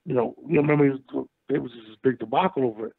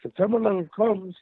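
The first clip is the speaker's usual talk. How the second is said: shouting on bad phone line; 6 semitones higher than usual. Real, not acted. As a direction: push it up so the caller hears. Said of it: "You, you breaking up for some reason".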